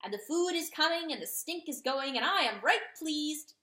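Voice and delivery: high, loud, brisk and cheerful; cheerful rooster. A narrator's reading. Rooster proudly reporting to the dog. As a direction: announce the camp news with pride. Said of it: "he said cheerfully".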